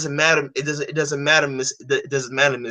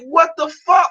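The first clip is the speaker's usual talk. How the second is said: even higher, loud incredulous yell; retold outraged what the fuck, louder; shocked shout; 14 semitones higher, 4 dB louder than usual. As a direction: shout it again, more outraged.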